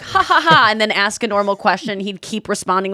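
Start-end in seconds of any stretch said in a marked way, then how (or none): 0.0-0.7 fake laugh. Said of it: "I'd go like".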